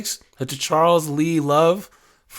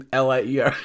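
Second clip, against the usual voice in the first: laughing spell-out. Real, not acted. Laughing while spelling out liar.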